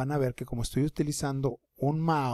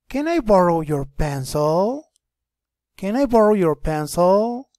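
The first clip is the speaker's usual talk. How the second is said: lightly voiced boy asking politely, a bit louder; a hint of a boy asking to borrow; voicing the boy; 5 semitones higher, 9 dB louder than usual. Teacher reads the boy's line to the girl, lightly voiced. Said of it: "El niño le dice a la chica".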